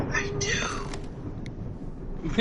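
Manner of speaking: breathy secret whisper. Retold or imitated. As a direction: whisper it like a confession. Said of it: "he whispers to us".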